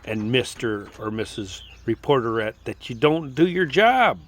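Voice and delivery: imagined citizen telling off politicians, rising to anger; indignant rebuke. Retold or imitated. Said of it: "the American people should be saying".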